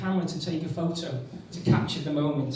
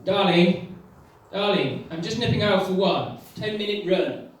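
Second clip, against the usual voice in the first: imitating the partner. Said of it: "have you ever heard this".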